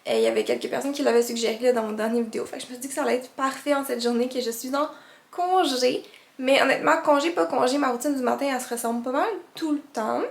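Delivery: groggy morning vocal fry; just-woke-up creaky voice. Real, not acted. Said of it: "Vous excuserez ma voix du matin".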